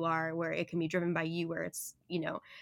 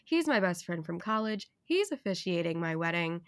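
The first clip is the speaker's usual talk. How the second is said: NPR radio voice. Real, not acted. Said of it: "like, N P R radio voice".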